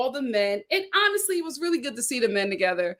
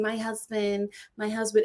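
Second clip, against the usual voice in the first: mock gushing; 3 semitones lower than usual. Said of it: "every time you spoke up his name".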